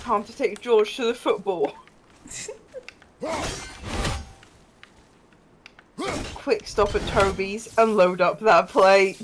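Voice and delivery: put-on Brexit geezer accent. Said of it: "learn how to do that accent".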